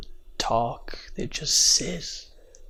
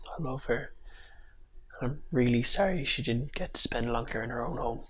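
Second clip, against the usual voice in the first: after crying; 5 dB quieter than usual. Real, not acted. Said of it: "I'm a bit teary".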